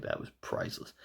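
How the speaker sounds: whispered awe at the match. Real, not acted. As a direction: hush it like a secret delight. Whispered reaction to the flip-off.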